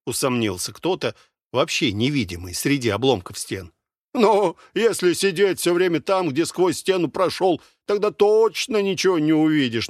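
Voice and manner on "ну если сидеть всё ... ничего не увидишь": higher, needling mockery; mocking. A narrator's reading. Black-haired soldier mocking the doubter's caution. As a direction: tease the doubter. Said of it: "насмешливо сказал черноволосый".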